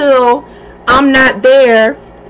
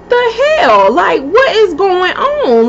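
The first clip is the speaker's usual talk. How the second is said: shocked disbelief; 5 semitones higher than usual. Retold or imitated. Shocked at the store clerk.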